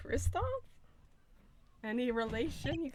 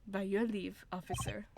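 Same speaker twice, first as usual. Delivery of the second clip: a hint of German accent; badly faked German accent; 3 semitones lower, 3 dB quieter than usual. Prosecutor taking leave of the officer, faint German accent. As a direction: try a courteous German accent, lightly. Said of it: "how to do a German accent".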